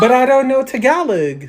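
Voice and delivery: fake American accent. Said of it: "Ang arte mo".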